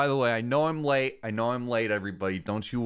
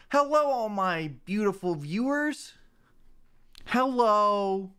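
much higher, hammed-up welcome; streamer voice; 8 semitones higher than usual. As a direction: greet viewers in a fake high streamer voice. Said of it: "my new streamer voice".

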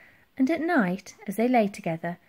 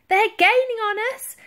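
high, loud alarm; girl yelling; 14 semitones higher, 6 dB louder than usual. A narrator's reading. Elsie warns the admiral about the ships, yelling. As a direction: yell a warning at high pitch. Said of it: "yelled Elsie".

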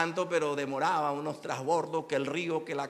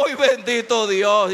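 thankful cry; 8 semitones higher, 13 dB louder, slower than usual. Retold or imitated. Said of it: "Le digo".

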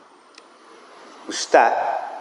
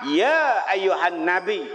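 reverent calling; slower than usual. Shown as a demonstration. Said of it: "Allah panggil Nabi Muhammad".

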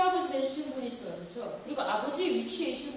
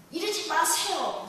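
firm plea; 4 semitones higher, 5 dB louder, slower than usual. Retold or imitated. Son grabs father's hands.

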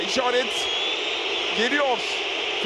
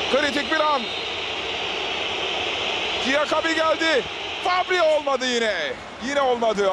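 screaming football commentator. Real, not acted. Penalty shootout commentary.

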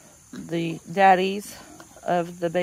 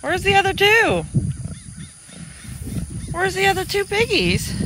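much higher, sing-song voice for the piglets; 13 semitones higher than usual. Real, not acted. Cooing at the piglets in the pen.

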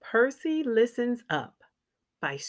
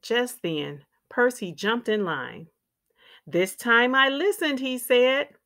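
put-on lively, clearly phrased read-aloud for young children; picture-book narration; 2 semitones higher than usual. A narrator's reading. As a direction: read a children's story with expressive ups and downs.

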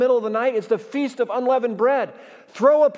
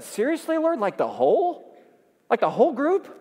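incredulous; 3 semitones higher than usual. Retold or imitated. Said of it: "I said".

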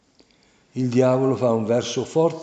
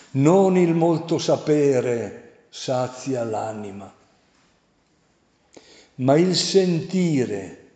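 slow solemn quote; slower than usual. Shown as a demonstration. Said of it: "che dice".

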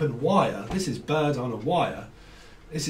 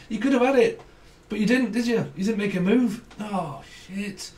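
higher, animated mock commiseration; mock game-show taunt; 5 semitones higher than usual. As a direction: rub in the prize they missed. Acting taunting game-show host catchphrase.

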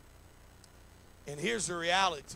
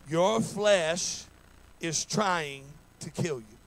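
louder; 6 dB louder, slower than usual. Shown as a demonstration.

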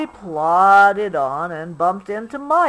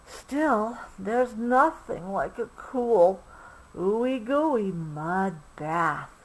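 dreamy longing; 5 dB quieter than usual. Acted. Obie dreaming of mud.

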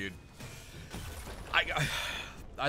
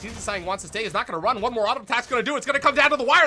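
rising louder and higher; building excitement; 10 semitones higher, 7 dB louder, faster than usual. Real, not acted. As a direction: build the call to a shout. Play-by-play building to a kill.

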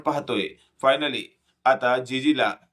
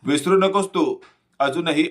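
loud shout; 2 semitones higher, 3 dB louder than usual. Acted. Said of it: "Manjiri जोरात ओरडते".

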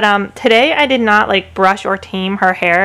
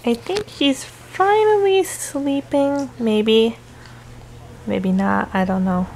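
whispering over a crib; 5 dB quieter, slower than usual. Real, not acted. Baby falling asleep nearby.

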